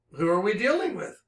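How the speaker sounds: ordinary talk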